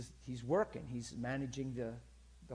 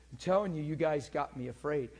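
shaken; 6 dB louder than usual. Retold or imitated. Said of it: "he was freaked out".

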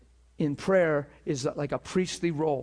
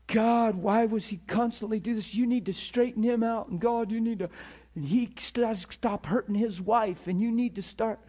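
higher-pitched, put-on complaining prayer; mock fault-finding prayer; 5 semitones higher than usual. Intercessor telling God to straighten a man out, mock complaint. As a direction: nag God about someone, acted. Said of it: "I have to work to try to pray that way".

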